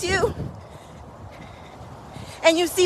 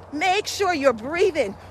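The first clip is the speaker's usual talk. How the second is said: slow coaching reminder. Shown as a demonstration.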